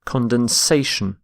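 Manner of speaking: "condensation" with main stress on SA; shifted stress. Shown as a demonstration. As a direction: say "condensation" as con-den-SA-tion. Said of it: "this shift in stress".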